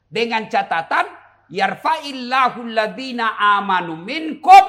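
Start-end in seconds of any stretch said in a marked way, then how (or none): 1.5-4.6 slow, loud, raised-pitch recitation; Quran recitation. Real, not acted. Preacher citing God's promise to the congregation, reciting. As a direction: recite the verse drawn out and forceful.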